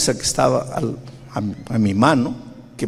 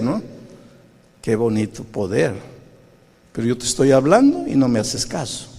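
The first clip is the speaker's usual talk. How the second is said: ironic reproach. Retold or imitated. The Spirit mocks the pastor's prayer, mild sarcasm. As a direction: tease him dryly about his prayer. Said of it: "sentí esa voz aquí".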